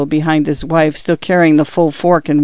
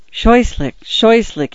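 higher-pitched, faltering exclamation; faltering dismay; 6 semitones higher, slower than usual. A narrator's reading. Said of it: "he faltered".

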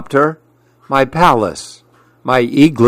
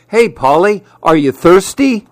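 higher, eager call to the parrot; lizard calling out; 6 semitones higher than usual. Acted. Lizard calling to the parrot, eager high call. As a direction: offer a drink, hoping to be seen. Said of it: "He made a trumpet flower bird bath".

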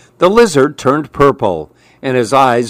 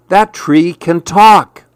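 surprised parrot; 5 semitones higher, slower than usual. Acted. Startled parrot voice.

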